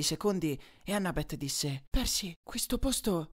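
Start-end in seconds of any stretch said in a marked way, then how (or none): 1.9-3.3 slow, high, hushed unease; apprehensive, trailing into silence; uneasy. A narrator's reading. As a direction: say it slowly, pitched up, wary of the place. Uneasy remark in the dark.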